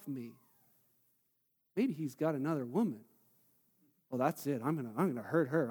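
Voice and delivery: low, soft, growing darker; hushed hurt building to mock menace; brooding spiral. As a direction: sink into a muttered suspicion. Wife's spiralling thoughts voiced.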